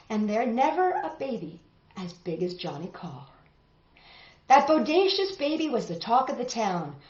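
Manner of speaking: rhythmic read-aloud storytelling; story narration. A narrator's reading. Teacher reading a tall tale to the class, rhythmic narration. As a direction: read the rhymes with a lilt for kids.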